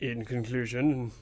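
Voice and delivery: slow, low-key announcement; mock sign-off. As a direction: intone it slowly and softly. Echoing the mock sign-off, understated.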